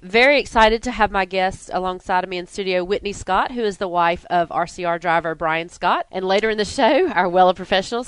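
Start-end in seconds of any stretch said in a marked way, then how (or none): 0.0-2.3 nasal voice. Real, not acted. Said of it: "I have a cold, so I sound a little nasally today".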